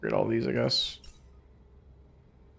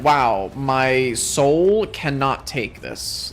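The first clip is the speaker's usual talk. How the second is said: mock British accent; much slower than usual. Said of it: "don't comment about that British accent".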